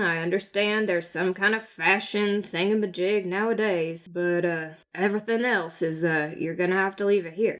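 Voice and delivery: low, folksy officer voice; weary guard explaining the rules; patient law officer. Acted. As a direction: reason with them, low and unruffled. Guard reasons with Twiddle.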